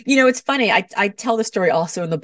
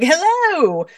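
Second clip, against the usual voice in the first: big, much higher and louder showman hello; over-the-top stage greeting; 12 semitones higher, 4 dB louder than usual. Pretend. Speaker mocking a big greeting at family dinner, grandly over the top. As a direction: boom it out like a larger-than-life host. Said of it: "and be like".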